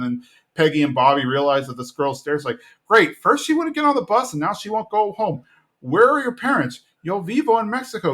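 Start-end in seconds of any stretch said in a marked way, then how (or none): 2.9-6.8 high, pitched-up exasperated mom voice; a high fed-up sigh of a question; exasperated Peggy. Retold or imitated. Peggy to the stray girl, high and exasperated. 7.0-8.1 lightly voiced little girl. Girl repeating herself.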